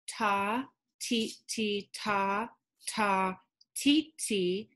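ta ti ti ta ta ti ti, one beat each; counting syllables. Shown as a demonstration. Teacher counting seven beats for students. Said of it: "That's seven syllables".

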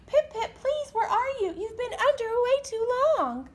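high, loud panicked calls; frantic mother calling. Acted. Mommy searching the ocean, loud and frantic. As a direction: cry out for the missing chick. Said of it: "Then she cried out".

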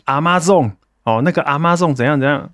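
"Amazon" in Mandarin-like syllables, a-ma-zong; imitated Amazon mispronunciation. Citing guests on a finance show, mispronounced "Amazon". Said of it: "会看到有一些来宾在念Amazon".

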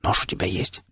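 voiceless hushed whisper. A narrator's reading. Hero whispering to Shram for a knife, hushed. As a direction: whisper so the enemy won't hear. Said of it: "Я шепнул Шраму".

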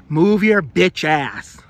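drawn-out, punchy order; exasperated demand. Real, not acted. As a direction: lean on each word, impatient. Calling at people blocking the way.

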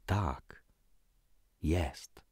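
ordinary delivery, nothing marked

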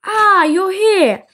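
strange disguised voice. Acted. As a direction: drag it out in a fake voice. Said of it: "What's happened to your voice".

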